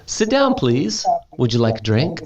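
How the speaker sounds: high, sweet host voice; hostess. Retold or imitated. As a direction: play the gracious hostess.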